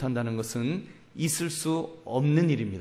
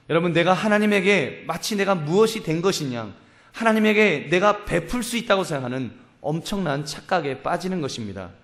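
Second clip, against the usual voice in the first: higher and louder, pressing the point; preaching at full force; 4 semitones higher, 4 dB louder than usual. Acted. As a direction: drive the warning home from the pulpit.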